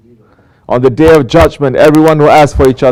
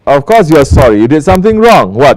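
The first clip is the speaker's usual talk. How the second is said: exasperated, sarcastic retort; mock scolding; 2 semitones higher than usual. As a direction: scold the apologizer with raised, incredulous emphasis. Acted scolding retort to apology.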